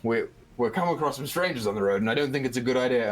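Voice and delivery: driver brushing off wife. Acted. Driver warning his wife about strangers, dismissive. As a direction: put her off quickly as the driver. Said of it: "you hear him go".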